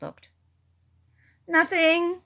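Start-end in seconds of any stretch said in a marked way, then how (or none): 1.5-2.2 lying. A narrator's reading. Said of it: "lied Bear".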